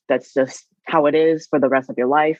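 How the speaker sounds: ordinary delivery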